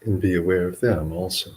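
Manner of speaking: measured meditation guidance with long pauses; guided meditation. Acted. Monk leading livestream listeners and yogis in relaxation, guided meditation. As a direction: guide listeners unhurriedly, leaving long silences between phrases.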